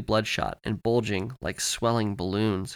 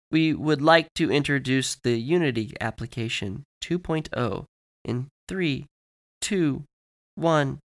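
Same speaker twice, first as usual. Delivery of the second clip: higher, slow, halting machine-like presenter; automated commercial announcer; 3 semitones higher, slower than usual. Acted. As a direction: announce it word by word, then count down. Voices glitched commercial presenter.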